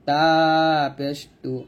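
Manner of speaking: long তা, tongue tip at the upper tooth roots; light t in তা and তু; thin dental consonant. Shown as a demonstration. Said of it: "জিহ্বার আগাটা উপরে দাঁতের গোড়ায় লাগবে". (পাতলা করে টেনে তা পেশ তু)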